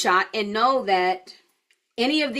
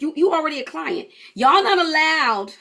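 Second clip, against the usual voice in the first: playful scolding; 5 semitones higher, 4 dB louder than usual. Pretend. Coach teasing clients about ordering, mock-stern. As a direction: lay down the law in jest.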